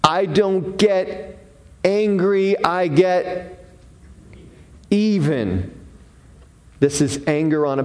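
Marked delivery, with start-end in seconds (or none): 0.0-5.7 slow, measured mock seething; understated simmering grudge, drawn out. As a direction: play stewing anger, word by word, dropping on the last. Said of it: "A seething, stewing".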